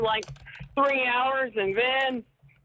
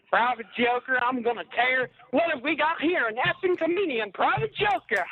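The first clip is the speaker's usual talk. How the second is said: drill sergeant quote. Retold or imitated. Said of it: "that guy says".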